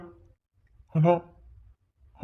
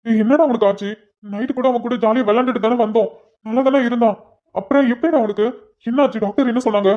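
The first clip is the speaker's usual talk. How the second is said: higher, louder worried questions; anxious questioning; 4 semitones higher, 4 dB louder than usual. Acted. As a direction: press him for news, alarmed. Friend anxiously asks about sick boy.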